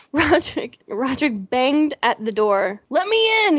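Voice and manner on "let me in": deep yell. Acted. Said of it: "he yelled in a deep voice".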